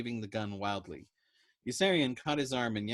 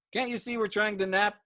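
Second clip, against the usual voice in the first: higher, much louder shout; calling out; 11 semitones higher, 7 dB louder than usual. Acted. Patient shouting down the ward, much louder. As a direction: yell across the ward.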